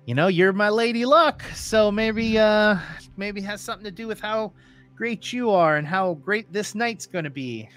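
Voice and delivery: playful gambler's bravado. Acted. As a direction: flatter your lady luck with swagger. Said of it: "that level of bravado".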